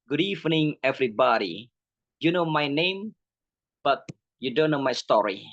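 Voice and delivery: demonstrated public speaker's opening; lightly staged welcome to an audience; presentation with style. Shown as a demonstration. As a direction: open a talk with a touch of flair. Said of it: "Pakai gaya".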